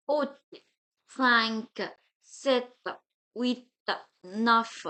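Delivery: Haute, cinq, sept, huit, neuf, each ending audible; French cinq, sept, huit, neuf with released last consonants; final consonants sounded. Shown as a demonstration. Teacher showing exceptions, cinq and sept with endings heard. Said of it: "exceptions where the last letter can be heard".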